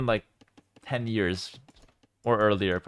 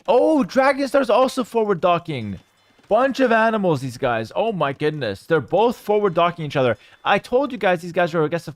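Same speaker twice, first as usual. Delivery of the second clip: excited reaction; 3 semitones higher than usual. Real, not acted. Caster to viewers as both players forward dock, excited. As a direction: react with surprise to the play.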